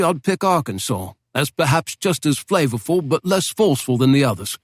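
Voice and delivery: a hint of an eager, courteous English barkeep; British barman. Barman places the accent.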